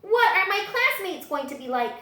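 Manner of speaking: high, loud worried question; nervous little T-Rex. A narrator's reading. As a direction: voice the anxious little dinosaur.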